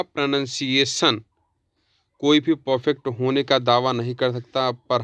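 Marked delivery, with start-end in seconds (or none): 0.0-1.2 प्रोनंसिएशन said pro-nun-see-ay-shun, no ow; प्रोनंसिएशन the correct way; correct pronunciation. Shown as a demonstration. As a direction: say प्रोनंसिएशन with nun, not noun. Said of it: "सही होगा".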